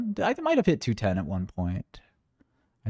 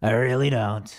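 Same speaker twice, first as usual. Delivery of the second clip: put-on voice. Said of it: "I'm gonna get stuck talking like this".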